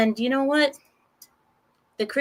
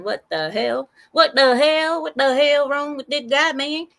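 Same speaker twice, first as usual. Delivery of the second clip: louder, higher voice of stunned onlookers; stunned outburst; 4 semitones higher, 3 dB louder than usual. Retold or imitated. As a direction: blurt it out in disbelief. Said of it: "stunned the other residents".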